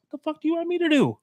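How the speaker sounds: high, fast retort; mock exasperation. Traffic worker answering impatient driver, mock exasperation. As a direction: rattle it off high in mock protest.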